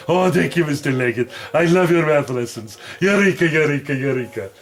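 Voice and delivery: lightly voiced eager cartoon dog; a hint of a puzzled puppet pup; Math Mutt voice. Puppet Math Mutt thanking teacher.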